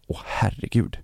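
breathy whisper; whispered panic. Retold or imitated. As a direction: whisper it to yourself in dread. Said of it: "jag bara". (viskande, nervöst för sig själv)

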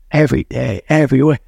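brisk, punchy affirmation; tighter, driven mantra beat. Shown as a demonstration. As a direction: say it with a bit of intensity and speed. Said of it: "say it with a bit of intensity".

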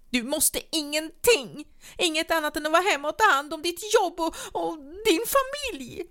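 very high and loud, words rushing then dragging; tearful shouting. A narrator's reading. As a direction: shout it near tears. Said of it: "med tårar brännande i ögonen".

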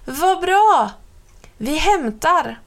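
high and loud, delighted; thrilled child's cry; excited shout. A narrator's reading. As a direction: burst out in glee. Little brother shouting with joy.

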